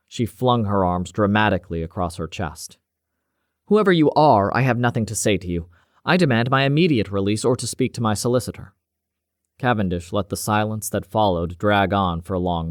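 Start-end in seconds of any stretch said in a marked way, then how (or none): 3.7-8.7 a stocky, scowling scientist demanding release; bristling doctor refusing to cooperate; indignant doctor. Acted. Detained doctor protests to Cavendish, indignant and angry.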